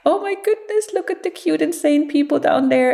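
high chirpy seagull talking. Retold or imitated. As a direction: play the gull gazing down amused. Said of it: "they laugh and they go".

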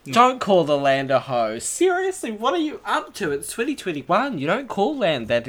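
high, indignant scolding; mock outrage. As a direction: squeak out in fake offense.

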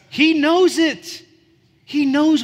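high, loud and slow emphatic line; emphatic preaching. Acted. Preacher to congregation, sudden loud slow insistence. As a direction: lift it up and lean hard on knows.

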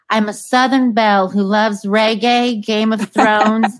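lightly put-on Southern belle accent, playful. Voicing the dog's dating profile to the guest, light Southern accent. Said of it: "do her Southern accent. You do a perfect one".

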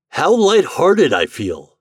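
high, slow, lilting delight; cheerful, drawn-out storybook exclamation; light-hearted father. Acted. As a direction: savour the happiness with big pitch swoops. Happy father at dinner.

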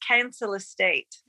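slow West Country "Council estate" with a heavy, unfamiliar vowel on "Council"; imitating West Country accent. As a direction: quote the singer, slowly, in West Country accent. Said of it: "Andy says".

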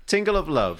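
breathy perfume advert voice; sultry perfume ad. Pretend. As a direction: purr it like a fragrance ad. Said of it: "The new fragrance by James J".

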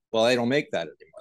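quick comeback in light Aussie accent; attempted Australian accent. Shown as a demonstration. American guest repeating the seller's reply, quick attempted Australian accent. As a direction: try on an Australian accent, brisk. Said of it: "I try to do it".

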